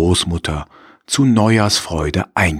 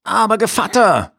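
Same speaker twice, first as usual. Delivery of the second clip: higher, sly wolf voice; 13 semitones higher than usual. Acted. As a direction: coax like a cunning wolf. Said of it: "sagte er".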